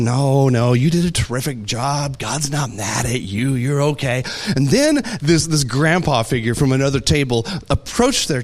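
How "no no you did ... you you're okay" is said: reassuring. Retold or imitated. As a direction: gently soothe an upset child, understated. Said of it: "she assured him".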